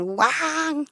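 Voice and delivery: a high mock fox yelp; hammed-up fox cry; fox call imitation. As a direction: yip "guau" high like a fox. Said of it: "le cantaba el, como zorro".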